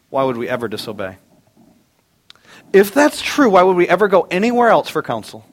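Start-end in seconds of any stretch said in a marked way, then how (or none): 2.7-5.4 preaching emphasis. Real, not acted. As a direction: lift it up and lean on it. Preacher building to climax.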